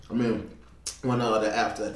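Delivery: speaking with food in mouth; mumbling between bites; talking while chewing. Real, not acted. Seen 3: Bite at -1.0; speaks right after, mouth working food early on.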